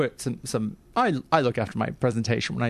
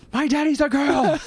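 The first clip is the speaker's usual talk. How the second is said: put-on crying child; 13 semitones higher than usual. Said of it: "she's like".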